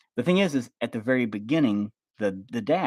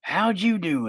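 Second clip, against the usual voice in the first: mock polite grandpa; 8 semitones higher, slower than usual. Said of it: "he keeps saying stuff like".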